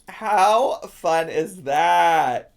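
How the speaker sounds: slow, drawn-out delight; excited. Real, not acted. Streamer showing off the belt bag, excited. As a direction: stretch each word to show it off.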